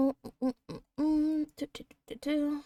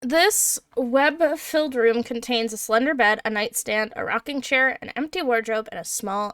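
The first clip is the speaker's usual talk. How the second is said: story narration. Acted. GM reads room description.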